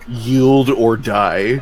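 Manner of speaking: slow, firm ultimatum; commanding. Acted. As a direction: lay down the ultimatum, slow and heavy. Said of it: "sounds commanding".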